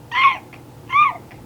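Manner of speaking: very high, loud bird shriek; screaming jays. A narrator's reading. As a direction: squawk like a screaming jay. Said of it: "The jays screamed".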